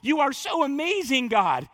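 put-on delighted amazement; imitated laughing amazement. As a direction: act out being laughingly overwhelmed by wonder. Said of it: "or laughing like".

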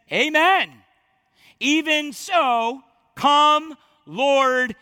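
loud, high, eager cry; excited. Acted. John crying out excitedly for the Lord's return. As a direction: call out longingly to the Lord.

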